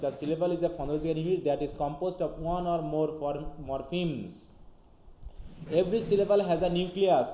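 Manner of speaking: slow, deliberate reading of an English definition; dictating slowly to students; slow textbook reading. Acted. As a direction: read it out word by word for the class.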